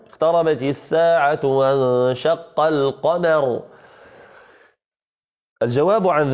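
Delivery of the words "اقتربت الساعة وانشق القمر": slow recitation. Shown as a demonstration. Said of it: "إنما يقول".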